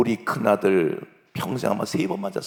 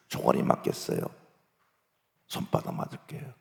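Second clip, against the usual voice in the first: soft, breath-only exchange; subdued negotiating; 9 semitones lower, 6 dB quieter than usual. Acted. Pupil agrees a punishment with principal, subdued. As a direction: settle it very quietly.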